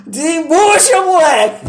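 put-on a mother barking at her kid; gruff mother.

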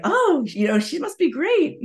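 high, breezy voice of outsiders; people assuming she's fine. Retold or imitated. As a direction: toss it off like people who only see the surface. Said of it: "So a lot of people are like".

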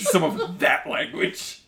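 slow, drawn-out teasing echo through a laugh; mock affectation. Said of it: "I didn't put that affectation on".

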